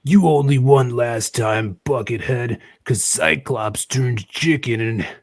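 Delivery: loud, hammy comic book hero; dramatic comic voice. Acted. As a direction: bellow it like a cartoon villain. Reading comic dialogue aloud, dramatic.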